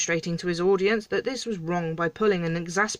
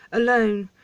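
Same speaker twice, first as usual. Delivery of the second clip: louder, drawn-out echo of the word; dramatic emphasis; 3 semitones higher, 5 dB louder than usual. Acted. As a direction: lean heavily on the word for effect. King dramatically repeats the word.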